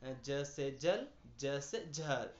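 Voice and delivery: ज से जल read slowly; slow teaching read. Shown as a demonstration. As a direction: read slowly for pupils to repeat. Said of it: "नुक्ता का अभ्यास इसी तरह जाने". (धीरे धीरे पढ़ाना)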